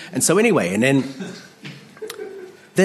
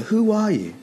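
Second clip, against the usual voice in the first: high falling demand; high-pitched mock challenge; challenging question; 9 semitones higher than usual. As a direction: pitch it up high, then drop away. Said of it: "That's how they answer".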